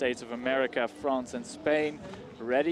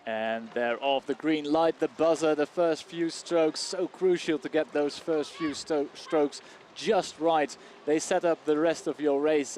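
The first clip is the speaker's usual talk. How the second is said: race caller; 3 semitones higher than usual. Acted. Live race commentary begins.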